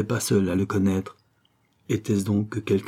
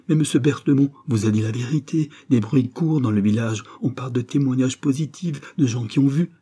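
insistent, raised-pitch warning; urgent arguing; 4 semitones higher than usual. Acted. Priest warning mother about village witnesses, urgent arguing. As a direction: argue the danger, voice lifted.

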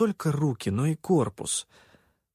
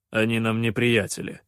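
grumbling. Acted. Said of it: "проворчал Хан".

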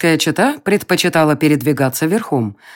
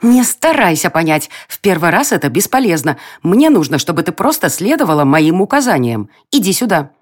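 pixie. Acted. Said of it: "и услышала".

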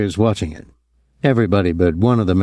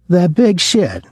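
sharp, higher bitter jab; bitter outburst; 9 semitones higher, slower than usual. A narrator's reading. Thomas to Dominic about Greening, a higher, bitter outburst. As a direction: spit it out with contempt. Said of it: "Thomas said bitterly".

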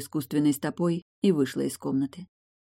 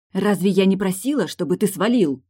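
louder, strained angry question; on the verge of a shout; 4 semitones higher, 6 dB louder than usual. A narrator's reading. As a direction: hold back a scream, barely. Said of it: "тоном на грани крика".

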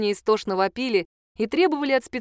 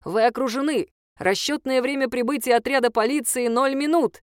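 drone loudspeaker; 4 semitones higher than usual. Acted. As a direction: announce it like a police drone. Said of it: "повторил дрон".

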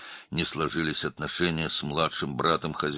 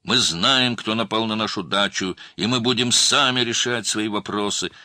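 much higher and louder, forceful; 8 semitones higher, 9 dB louder than usual. A narrator's reading. The younger brother lecturing the officer in a loud, forceful voice. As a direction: declare it loudly to the whole room. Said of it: "продолжал громким голосом".

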